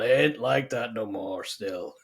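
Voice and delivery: slow, lightly voiced grumpy old gunslinger; Clint Eastwood. Podcaster quoting the film's retired killer, grumpy old man. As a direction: drag it out like a weary old cowboy. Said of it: "Grumpy old Clint Eastwood".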